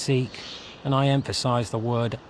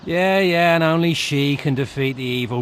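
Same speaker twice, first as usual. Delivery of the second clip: louder impatient yeah yeah; bored mockery; 3 semitones higher, 5 dB louder than usual. Hero interrupting the tired rescue pitch, impatiently. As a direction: cut him off, sick of the speech. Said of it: "Blah, blah".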